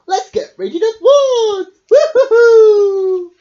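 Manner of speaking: loud, high laughing whoop; laughing cheer. Acted. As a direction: whoop with glee, stretched out. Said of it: "said Fox".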